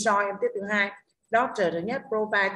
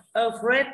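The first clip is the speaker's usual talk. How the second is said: "Afraid" with a stressed "fraid"; stress on second syllable; 3 semitones higher, 4 dB louder than usual. Shown as a demonstration. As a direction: model "Afraid", light first syllable, strong second. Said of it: "rơi vào âm thứ hai là afraid".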